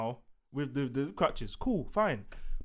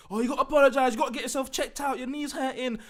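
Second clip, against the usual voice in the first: higher mock nagging voice; Stephanie McMahon; 5 semitones higher than usual. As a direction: mimic a fussing boss, pitched up. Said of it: "I saw Stephanie McMahon jump in".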